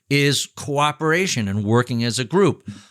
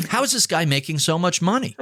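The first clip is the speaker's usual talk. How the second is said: higher, quick, baffled envy; mock incredulity; 5 semitones higher, faster than usual. Envious onlooker wondering about a richer neighbour, mock incredulity.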